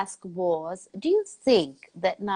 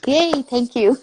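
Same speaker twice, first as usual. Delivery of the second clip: higher, louder happy thanks; pleased cheer; 5 semitones higher, 6 dB louder, slower than usual. Real, not acted. Mother told she is doing a great job, delighted. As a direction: cheer it, about to laugh.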